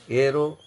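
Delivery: "Aeroic" as "ero", pause, "ik"; pause before second part. Shown as a demonstration. Teacher repeating the last example, "Aeroic" broken by a pause. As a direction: hold "Aero", stop, then add "ic". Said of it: "you pause for a moment".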